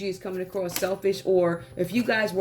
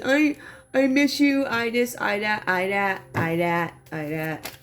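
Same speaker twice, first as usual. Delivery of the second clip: mock whining. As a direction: mimic a needy whine that tails off. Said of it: "I feel like a whining energy".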